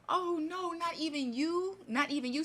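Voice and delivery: high, loud anguished cry of dismay; the pastor cries out, upset, to his wife's ghost. Retold or imitated. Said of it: "So he's upset".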